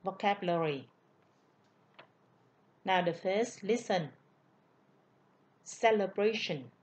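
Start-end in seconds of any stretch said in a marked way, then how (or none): 5.6-6.7 "Celebration" with the stress on BRA; stress on third syllable. Shown as a demonstration. Teacher modelling the noun for students, "Celebration" stressed on the third syllable. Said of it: "ngữ điệu nhấn ở vần ba".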